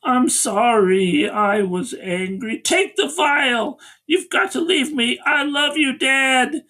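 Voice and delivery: slow, drawn-out melodramatic plea; imitating a tragic deathbed goodbye; mock dying daughter. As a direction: build to a high, hammed-up farewell. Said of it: "the daughter is dying".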